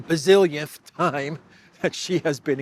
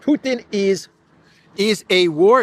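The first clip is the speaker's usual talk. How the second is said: mock Ukrainian accent, higher and louder; hammed-up Zelensky, pitched up; 7 semitones higher, 9 dB louder than usual. Podcaster mocking Zelensky's line in a high put-on Ukrainian accent. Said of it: "my Zelensky voice".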